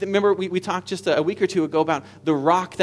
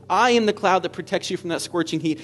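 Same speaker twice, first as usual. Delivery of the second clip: louder and higher, ringing declaration; full-force preaching; 3 semitones higher, 5 dB louder than usual. Acted. Preacher voicing Jesus to his people, loud and exultant. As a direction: declare it like triumphant news.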